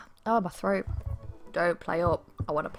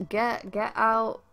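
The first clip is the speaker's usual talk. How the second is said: slow mock menace; slower than usual. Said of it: "Leans in and whispers".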